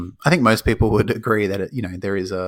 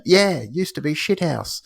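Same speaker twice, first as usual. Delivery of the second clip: mock film line; 8 semitones higher, slower than usual. Quoting the film joke.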